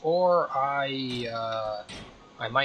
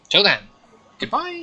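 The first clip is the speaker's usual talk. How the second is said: loud sign-off; 10 semitones higher, 6 dB louder than usual. Real, not acted. Outro sign-off.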